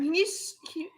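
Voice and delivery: coughing words out after a sip went down wrong; choked, whispery, struggling for air; choking on a drink. Real, not acted. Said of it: "choking myself".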